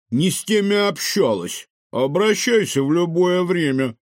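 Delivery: high, loud squeaky voice; squeaky chubby raccoon. A narrator's reading. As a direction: squeak it out cheekily. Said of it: "пискнул толстячок".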